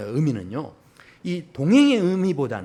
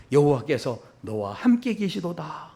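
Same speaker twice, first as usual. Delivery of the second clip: slow declaration. Acted. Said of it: "선언을 하게 됩니다".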